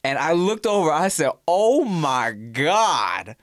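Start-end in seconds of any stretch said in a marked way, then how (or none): 1.5-3.3 awestruck. Real, not acted. Gawking at a corseted lady.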